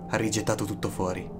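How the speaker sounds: ordinary delivery, nothing marked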